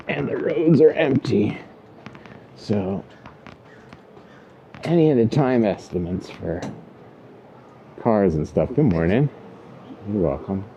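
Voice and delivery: talking while riding a scooter. Real, not acted. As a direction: speak over wind on a moving scooter. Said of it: "Now I'm riding a scooter".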